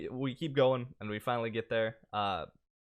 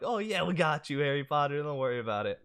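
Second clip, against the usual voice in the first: high-pitched mock reassurance, easing down at the end; imitated cheery strangers; 3 semitones higher than usual. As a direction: lightly voice rowdy passersby promising help. Voicing passing strangers answering him.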